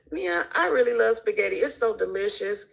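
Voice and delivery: lightly voiced pushy critic; mocking a critic. A light mock of a critic scolding Mia about spaghetti. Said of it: "That's just like you telling me".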